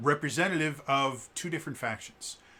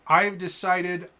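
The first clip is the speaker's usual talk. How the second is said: loud, high villain proclamation; villain addressing the city; 5 semitones higher, 7 dB louder, slower than usual. Retold or imitated. Astronema threatening the people of Angel Grove, loud and high. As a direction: boom it out like a cartoon villain queen. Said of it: "she's addressing the people of Angel Grove".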